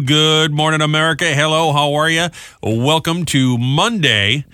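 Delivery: upbeat morning radio announcer rundown; radio host read. Acted. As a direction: run through the show lineup like a DJ. Radio show rundown and promos.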